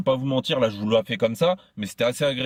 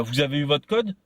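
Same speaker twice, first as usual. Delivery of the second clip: mock arrogant tone. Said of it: "sur un ton arrogant".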